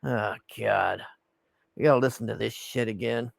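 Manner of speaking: imitated weary exasperation, starting low; Trump. Commentator voicing Trump enduring the sermon, weary exasperation. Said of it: "he's just like".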